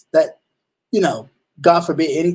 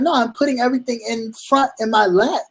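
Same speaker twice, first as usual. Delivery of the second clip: defensive explaining; 5 semitones higher than usual. Retold or imitated. Driver pulled over explains himself to the officer, higher and urgent. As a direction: justify yourself to a tense cop. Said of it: "And I'm just like".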